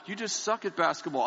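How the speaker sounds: a mock-sweet jab with "suck" stressed; mock compassionate wife. Quoting his wife's blunt verdict with a light mock-sweet sting. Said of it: "here's my compassionate wife".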